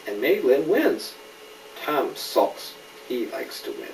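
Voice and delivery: clear, lively storybook reading; gentle picture-book narration; reading to a child. A narrator's reading. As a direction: read it to a little one, naming each friend. Reads picture book aloud.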